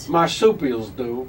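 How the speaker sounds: slow, drawn-out Walken word; deadpan Walken; Christopher Walken impression. Walken bit.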